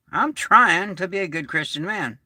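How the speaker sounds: "trying" given the main weight; stress on trying. Real, not acted. Admitting we all fall short, stress on "trying". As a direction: lean on the word "trying". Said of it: "I emphasize the word trying".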